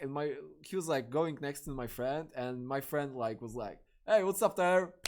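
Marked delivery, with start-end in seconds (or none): 4.1-4.9 excited greeting. Retold or imitated. Friend greets Tyler out loud.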